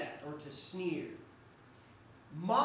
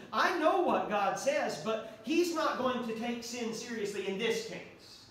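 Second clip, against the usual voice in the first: smug excuse; 2 semitones higher than usual. Shown as a demonstration. Preacher acting a sinner excusing himself, smug then insistent. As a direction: justify yourself smugly. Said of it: "Mocking God is when I say".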